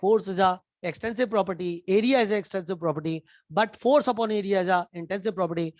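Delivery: slow, deliberate dictation pace; careful teacher restating the rule slowly; slow correction. Shown as a demonstration. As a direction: spell out the correction slowly for the class. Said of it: "मैं अपनी गलती को सुधारता हूँ".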